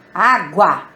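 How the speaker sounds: "Água" with a loud opening Á; stress on first syllable. Shown as a demonstration. Teacher showing the strong syllable, "Água" stressed on Á. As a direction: hit the first A of "Água" hard. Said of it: "a sílaba forte é a".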